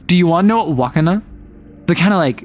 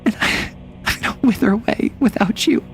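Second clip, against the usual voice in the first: mock abandoned plea; 6 semitones higher, 4 dB quieter than usual. Mock-dramatic abandoned lover plea.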